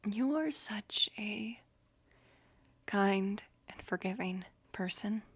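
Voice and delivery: slow, hushed and tender; tender whisper. Acted. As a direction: whisper it slowly like a heartfelt compliment. Tender praise of the friend.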